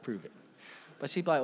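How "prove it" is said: low, soft retelling of a challenge; understated, much quieter quote; toned-down quote. Retold or imitated. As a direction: say it softly and low, imitating a wife. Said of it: "She didn't say it like that".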